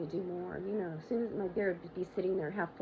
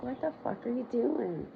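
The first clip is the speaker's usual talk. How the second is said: sharp, slow, higher alarmed yell; jolted out of you as he crashes into the rack; startled outcry; 5 semitones higher, 4 dB louder than usual. Retold or imitated. Startled shout at collapsing husband.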